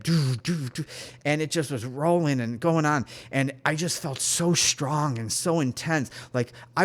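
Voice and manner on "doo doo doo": pulsing "doo" sound effect; vocal imitation of repeated shots; imitated shooting. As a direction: fire off short "doo" bursts. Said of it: "as if they were shooting it".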